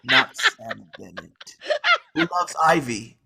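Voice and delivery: slow, then loud, shouting through laughter on Ivy; laughing mock jab. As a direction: twist the knife, cracking up. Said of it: "to just shove it in harder".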